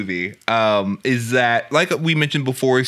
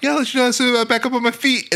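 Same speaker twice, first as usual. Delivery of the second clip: mocking voice; 12 semitones higher than usual. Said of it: "She's like".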